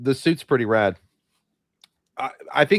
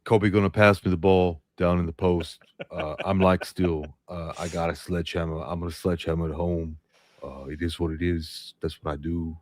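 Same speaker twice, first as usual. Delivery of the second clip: imitating Shaq; 5 semitones lower than usual. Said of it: "I can't do Shaq".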